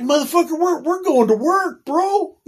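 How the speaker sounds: high-pitched, laughing mock outrage at a drunk buddy; laughing disbelief. Scolding a drunk coworker before work, laughing high. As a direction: crack up while scolding him.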